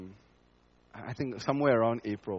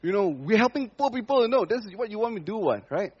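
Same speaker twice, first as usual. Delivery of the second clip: mock self-justifying plea; 10 semitones higher, 5 dB louder than usual. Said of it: "we cry out to God and say".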